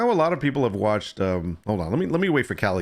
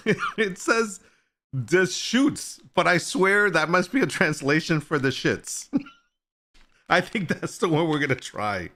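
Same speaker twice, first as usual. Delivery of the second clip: talking through giggles, pitched up; amused laughing; 5 semitones higher than usual. Real, not acted. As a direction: try to explain while cracking up. Laughing over the coffee's name.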